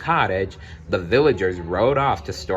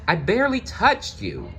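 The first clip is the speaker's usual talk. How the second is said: indignant Belle; 11 semitones higher than usual. Acted. Belle protests beast's roar.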